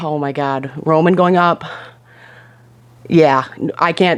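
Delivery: slow, choked-up voice on the verge of tears. Reviewing a TV show, reacting to a character's storyline, choking up. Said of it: "I'm gonna cry again".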